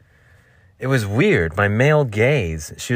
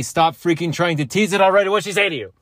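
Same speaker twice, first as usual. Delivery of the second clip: high eager pushy question; a teasing listener begging to know; mock eager listener; 7 semitones higher, 4 dB louder than usual. Imagined listener pushing again.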